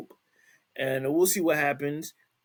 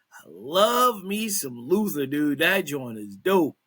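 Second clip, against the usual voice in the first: excited; 4 dB louder, slower than usual. Real, not acted. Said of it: "before I get all excited".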